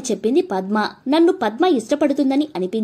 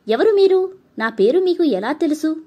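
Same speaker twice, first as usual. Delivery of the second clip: startled question; 5 semitones higher than usual. Acted. Girl startled by a stranger.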